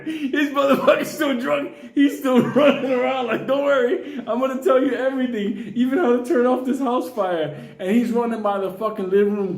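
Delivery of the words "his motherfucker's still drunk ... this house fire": put-on drunk rooster. Burning drunk rooster voiced high.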